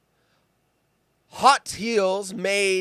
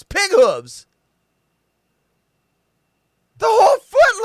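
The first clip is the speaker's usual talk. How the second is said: high ranting disgust; 8 semitones higher, 6 dB louder than usual. Real, not acted. Ranting about the shoes.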